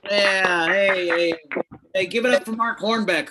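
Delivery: loud, high crowd hype; hyping the crowd. Real, not acted. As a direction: pump the room up. Comic hypes crowd on stage.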